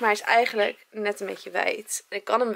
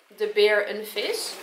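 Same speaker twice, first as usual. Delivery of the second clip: slow demonstration; 3 dB louder, slower than usual. Shown as a demonstration. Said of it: "En jij had gezegd".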